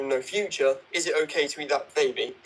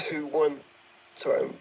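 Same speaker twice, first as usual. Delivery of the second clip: slower, emphasized reading. Shown as a demonstration. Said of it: "you see how you can emphasize".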